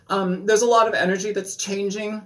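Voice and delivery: words sprayed with spit; spitting a little on the words; spitting while talking. Real, not acted. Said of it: "I'm sorry, I'm spitting".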